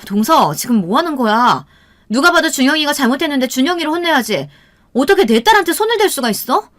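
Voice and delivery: mother's outrage climbing in pitch; indignant protest. A narrator's reading. Mother protests child being hit. (어이없어 따져 묻는 격앙된 목소리)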